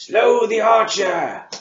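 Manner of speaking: drawn-out high-pitched battle yell. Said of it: "the Abjurer yell".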